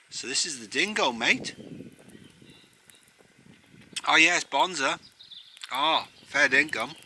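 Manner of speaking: hammed-up Australian accent, rising high at the end. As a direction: play the cheery Aussie with slang. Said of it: "I can't do the accent".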